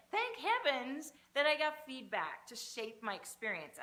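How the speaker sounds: loud, slow, grateful declaration; booming motivational speech. Acted. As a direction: proclaim it like a revelation. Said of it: "You say".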